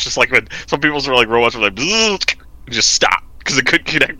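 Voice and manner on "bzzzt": high imitated robot buzz; short mimicked electronic glitch; powering-down buzz. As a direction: buzz like a machine cutting out. Imitates a dying robot vacuum noise.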